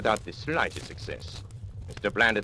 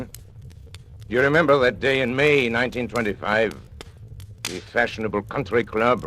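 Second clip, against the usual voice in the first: louder, higher, mocking the gentlemen; taunting accusation; 5 semitones higher, 5 dB louder than usual. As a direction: throw their titles back at them. Villain taunts the powerful men.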